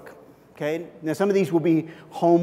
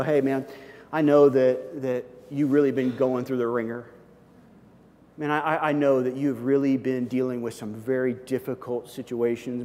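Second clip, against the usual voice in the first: caring; 4 semitones lower than usual. Pretend. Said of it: "you go".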